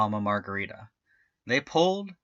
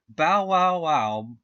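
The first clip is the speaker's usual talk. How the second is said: higher, louder happy bark; dog barking; 4 semitones higher, 4 dB louder, much slower than usual. A narrator's reading. Dog strains at the pull, barking loudly. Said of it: "barked Paquitos".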